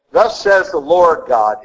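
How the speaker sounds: unhurried, weighty words; slow solemn proclamation. Shown as a demonstration. Priest repeating the prophet's formula with slow solemnity. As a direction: let the majesty of the phrase ring. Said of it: "that really emphasizes the infinite majesty".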